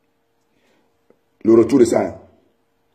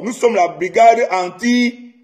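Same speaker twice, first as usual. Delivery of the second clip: mock proud declaration; 4 semitones higher, slower than usual. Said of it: "Et dites haut et fort".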